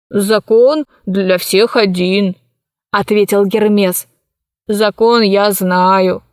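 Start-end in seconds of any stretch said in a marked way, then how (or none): 0.1-2.4 put-on old man. Sleepy old Hermes answers the mistress. 4.7-6.2 put-on old man. Sleepy old Hermes answers the mistress.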